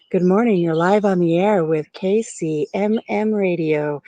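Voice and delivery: slowed, lightly voiced radio DJ answering; a hint of on-air announcer, unhurried; pretend radio host. To a telemarketer, as a mock radio host, slow and smooth. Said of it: "answer the phone and say".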